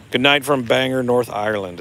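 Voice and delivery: put-on a clumsy, half-hearted Northern Irish accent; playful fake Northern Irish accent for a viewer; bad Northern Irish accent. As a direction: try a Northern Irish lilt and miss it. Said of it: "That was a horrible accent".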